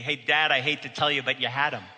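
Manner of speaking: dry, mocking jab at dad; sarcastic. Son teasing his father about the missed arrest, sarcastic. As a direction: rub it in with a sneer. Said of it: "I said very sarcastically".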